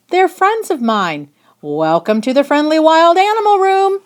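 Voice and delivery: welcoming shout. Acted. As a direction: call out the welcome over the crowd. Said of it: "he shouted".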